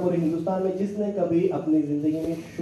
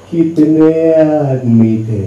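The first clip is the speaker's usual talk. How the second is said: slow, booming villain growl, much louder; Gabbar voice; 4 semitones lower, 11 dB louder, much slower than usual. Retold or imitated. Baby mimicking Gabbar, booming slowly. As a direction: drag out each word like a dacoit chief. Gabbar line in Sholay joke.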